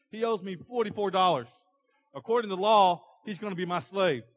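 indignant creditor. Acted. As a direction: claim what you are owed, forcefully. Greedy servant demands his forty-four dollars.

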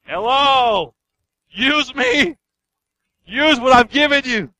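high, insistent calling out; shouting out. Acted. Neglected gift shouting at its owner, insistent shout. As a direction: call out to be noticed, pitched high. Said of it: "is shouting at you saying".

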